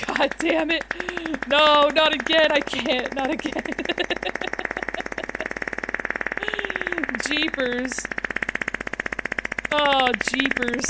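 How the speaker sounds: loud, high old cartoon voice; vintage cartoon voice. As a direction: yelp it like a panicked cartoon. Reacting in a cartoon-style voice.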